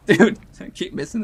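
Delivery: loud laughing outburst; laughing yell. Real, not acted. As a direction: laugh and shout at the failed jump. Keeps failing a jump.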